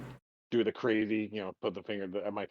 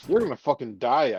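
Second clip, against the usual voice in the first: mock shouted warning; 3 semitones higher, 8 dB louder than usual. Warning friend about heat.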